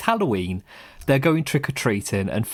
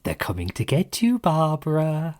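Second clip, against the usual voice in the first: Tavan voice; 5 semitones higher than usual. Shown as a demonstration. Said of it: "When I'm doing the Tavan voice".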